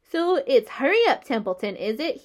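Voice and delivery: rat mocking the pig's plea; sarcastic mimicry of Wilbur's hurry; imitating Wilbur. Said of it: "He began imitating Wilbur's voice".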